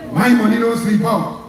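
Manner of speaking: understated smug boast at normal level; a calm, lightly arrogant take on his words; lightly mocking arrogant politician; arrogant mock quote. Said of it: "In the most arrogant, disrespectful style".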